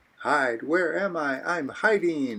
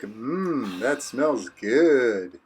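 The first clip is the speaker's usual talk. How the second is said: savoring a smell; 4 semitones lower, much slower than usual. Acted. Cooking, smelling the food.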